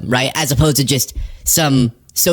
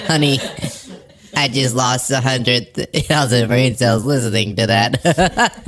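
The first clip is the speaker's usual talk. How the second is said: slow, laughing mock of a smug host; Laura Ingraham impression; 4 semitones lower than usual. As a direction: try her voice but crack up. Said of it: "an impression of her".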